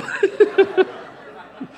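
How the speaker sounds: airy high-pitched giggle; high breathy laugh. Real, not acted. Laughs at his own joke.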